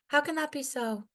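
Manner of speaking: sharp question. Acted. Poet closing her poem with a pained rhetorical question. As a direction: ask it high and aching.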